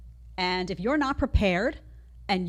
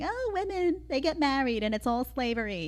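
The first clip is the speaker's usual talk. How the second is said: mocking talking point; 4 semitones higher than usual. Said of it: "You know the talking point".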